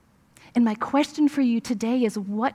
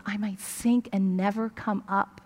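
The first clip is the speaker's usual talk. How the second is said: softer, grave, dread-filled; real fear; 6 dB quieter than usual. Shown as a demonstration. Grandmother showing the boy's real fear, hushed and grave. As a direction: let the dread of sinking forever sink in. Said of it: "It was".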